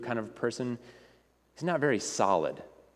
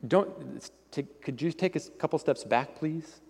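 alarmed ghostly man; 2 semitones higher than usual. Acted. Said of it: "And the ghostly man says".

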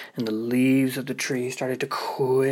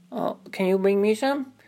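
put-on little girl asking; 7 semitones higher than usual. Ruby asks for cookies.

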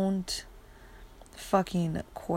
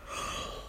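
sharp startled gasp; sudden gasp; 10 dB quieter than usual. Real, not acted. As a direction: catch your breath suddenly. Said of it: "oh my God, I'm so sorry".

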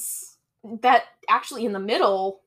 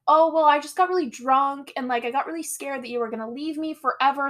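higher, rambling mock confession; excuse-making boyfriend; 4 semitones higher than usual. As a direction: imitate a boyfriend babbling out his excuse. Voicing boyfriend's excuse for condom.

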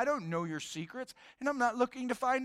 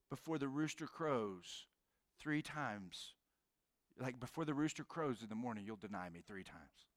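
solemn prophecy; 8 semitones lower, 12 dB quieter than usual. Retold or imitated. Jesus foretells the denial.

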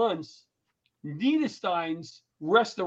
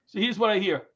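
normal talking voice

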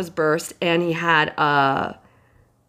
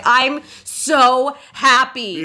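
proud friend; 4 semitones higher, slower than usual. Retold or imitated. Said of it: "and you were like".

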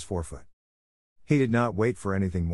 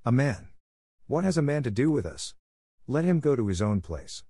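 yelling; 4 semitones higher than usual. A narrator's reading. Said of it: "more than half the pack yelled".

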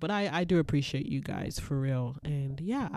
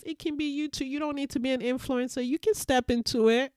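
much higher and louder, fast rallying cheer; excited encouragement; 10 semitones higher, 6 dB louder than usual. Real, not acted. Urging listeners they can step into it, excited cheering. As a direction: pump the listener up. Hyping up listeners, big finish.

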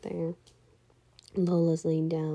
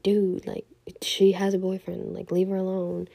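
louder, mildly scolding; retold firm intervention; 5 dB louder than usual. Imitating Chad telling the man to back off, firm and louder. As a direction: speak up as if calling someone off. Friend stepping in to defend her.

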